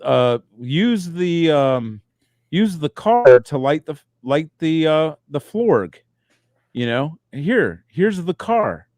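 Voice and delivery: patient mock-dad lesson; dad teaching a child. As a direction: show the kid slowly, word by word. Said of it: "we teach 'em, we, we, like".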